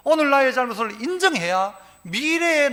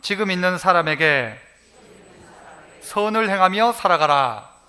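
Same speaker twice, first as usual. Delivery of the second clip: call-and-response line; 5 semitones lower than usual. Shown as a demonstration. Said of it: "또 한번 따라 합시다".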